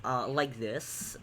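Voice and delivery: slow demo of a Redditor's talk; Hale. Shown as a demonstration. Streamer explaining his accents, lightly voiced Redditor. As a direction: drag it out like a Redditor. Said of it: "We can obviously tell that Hale is a Redditor".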